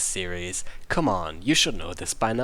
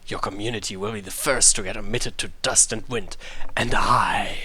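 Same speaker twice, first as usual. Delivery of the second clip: mild villain shout; 3 semitones lower than usual. Acted.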